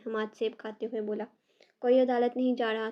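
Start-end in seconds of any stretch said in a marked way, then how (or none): 1.8-2.9 loud, stern refusal; aunt forbidding him sternly; firm scolding. Acted. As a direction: lay down the law to him. Aunt forbids court firmly.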